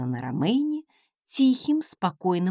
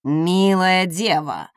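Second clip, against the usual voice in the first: louder, slow call of "Милая дева!"; calling envoy; 6 dB louder, slower than usual. Acted. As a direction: call out to the maiden. Envoy calls to her.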